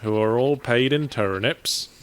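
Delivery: slow West Country farmer voice; West Country accent. Pretend. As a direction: keep the drawn-out West Country farmer going. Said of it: "do the whole thing in a West Country accent".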